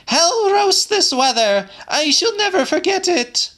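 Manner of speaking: put-on very high, loud, old soldier's outburst; exclaiming old pensioner. A narrator's reading. Pensioner curses the weather aloud, loud and high. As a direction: bark it out like a cantankerous old soldier.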